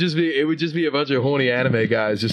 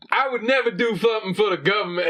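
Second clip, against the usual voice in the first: imitating the streamer; 9 semitones higher than usual. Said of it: "He's like".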